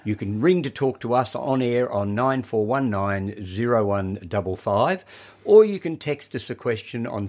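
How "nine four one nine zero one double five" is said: slow, clear phone number; reading digits one by one. Real, not acted. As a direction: spell out each digit slowly. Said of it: "I'll read out the numbers".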